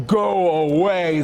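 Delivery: slow, dismissive zebra voice; grumpy zebra. Acted. Zebra refusing to look at hats, slow and dismissive. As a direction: brush off the elephant. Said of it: "Zebra said".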